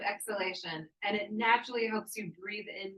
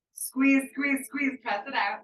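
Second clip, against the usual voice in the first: louder and higher, hammering each squeeze; urgent coaching cue; 5 semitones higher, 6 dB louder, slower than usual. Real, not acted. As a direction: push them to empty the lungs. Coach urging a forceful exhale.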